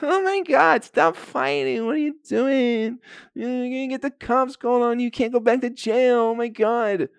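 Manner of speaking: a nagging hen squawking at the fighters; fussy hen. Retold or imitated. Hen begging the rooster to stop, in a high squawky voice.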